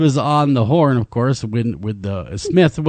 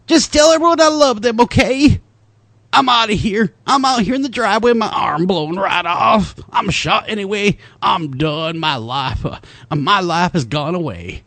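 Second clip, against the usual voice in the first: Southern voice; 4 semitones higher than usual. Retold or imitated. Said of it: "I do a pretty good Southern voice of this too".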